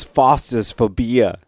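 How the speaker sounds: bad Australian accent; amateur Australian twang; attempted Australian accent. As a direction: try an Aussie accent and miss. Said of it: "they have this cool Australian accent".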